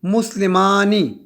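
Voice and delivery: مسلمانی drawn out slowly, each syllable clear; slow demo. Shown as a demonstration. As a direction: spell it out slowly for the class. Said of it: "اور آنی،". (آہستہ آہستہ ادا کیا گیا لفظ)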